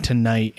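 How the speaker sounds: "tonight" said as "ta-dight"; blended word. Real, not acted. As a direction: mash today into "tonight", with a D for the N. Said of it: "I just combined today and tonight".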